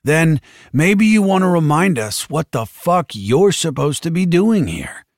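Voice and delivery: a stern coach yelling; gym teacher. A narrator's reading. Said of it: "sounding like every gym teacher Tully had ever met".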